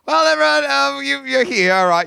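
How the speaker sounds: calling out to the room, loud and high; big excited host welcome; loud greeting. Real, not acted. Hosts greeting guests loudly.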